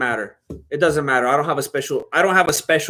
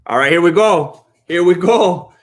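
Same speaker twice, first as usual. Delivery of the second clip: excited hype; 5 dB louder than usual. Real, not acted. Fight starting, excited.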